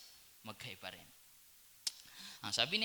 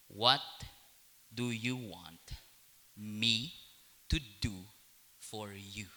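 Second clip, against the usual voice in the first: gentle question; 6 semitones lower, 4 dB quieter, slower than usual. Acted. Jesus asking slowly, gently.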